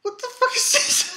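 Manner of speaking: high, laughing what; disbelieving laugh through the words; laughing disbelief. Retold or imitated. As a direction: crack up at the sight. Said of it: "I'm like".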